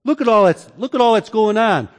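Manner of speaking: an indignant rhetorical cry; mock exasperated complaint. Doubters questioning God amid injustice, mock exasperated. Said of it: "or by asking".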